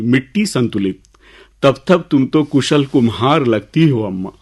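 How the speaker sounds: measured, lilting recital with pauses; poem recitation. Acted. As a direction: recite verse to an audience, leaning on key words. Recites his second poem.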